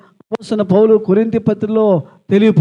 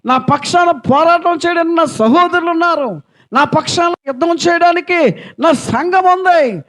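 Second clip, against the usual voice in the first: rebuking the devil. Pretend. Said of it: "ఏమనుకోవాలంటే".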